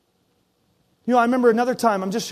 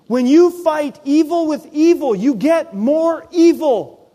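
slow, louder, higher preaching of the point; full-force preaching; 7 semitones higher, 6 dB louder than usual. Acted. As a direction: hammer each word home from the pulpit.

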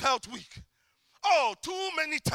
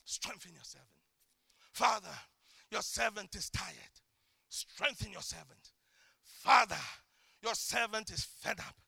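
hushed, quieter prayer; soft pleading prayer; 6 semitones lower, 5 dB quieter than usual. Shown as a demonstration. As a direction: plead humbly, under the breath. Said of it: "I say".

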